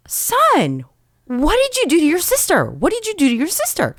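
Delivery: mock stern father questioning his son; stern dad. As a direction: confront the boy, half-alarmed.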